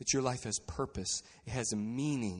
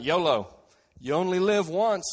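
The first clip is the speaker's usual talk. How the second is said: loud, higher mock-flippant slogan; loud mocking yolo; mock carefree; 4 semitones higher, 9 dB louder than usual. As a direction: ham up the party attitude.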